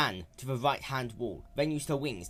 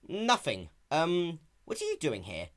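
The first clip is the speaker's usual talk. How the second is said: a hint of a young dragon, fumbling; lightly raised boyish voice; nervous Spike; 6 semitones higher than usual. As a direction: cover it up innocently. Spike voiced, caught hiding.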